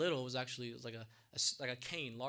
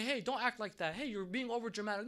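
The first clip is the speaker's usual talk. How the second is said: higher-pitched imitation of a critic; mock scolding; 6 semitones higher, 3 dB louder than usual. Onlooker telling a sad person to stop, mock scolding. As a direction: chide as a dismissive onlooker would.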